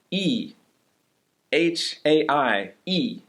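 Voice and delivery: E, H A I, E said slowly and spaced out; syllable by syllable. Shown as a demonstration. Teacher spells Ohio in Chinese for learners, slow. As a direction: pause between each syllable. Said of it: "put spaces in between the syllables".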